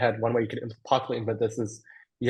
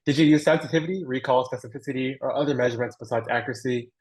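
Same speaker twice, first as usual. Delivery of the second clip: careful, slower re-read of a question; slow down so each term comes across. Real, not acted. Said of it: "I'll read that slower".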